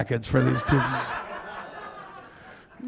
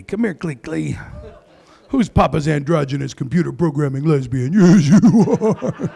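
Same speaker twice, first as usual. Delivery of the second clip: put-on baby talk. Dad cooing to daughter.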